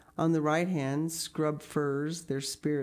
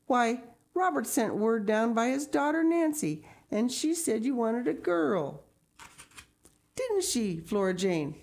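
higher, flustered explaining; flustered Mrs Spencer; 8 semitones higher than usual. A narrator's reading. Mrs Spencer explains and appeals to her daughter, flustered high. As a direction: hurry to explain, much higher.

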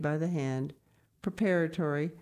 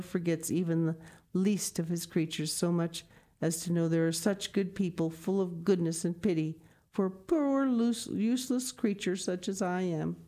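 deeply moved; 3 semitones higher than usual. Acted. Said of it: "deeply moved".

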